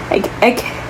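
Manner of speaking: struggling to talk through allergies; words half-choked by pollen; allergy-choked voice. Real, not acted. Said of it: "I can't even talk".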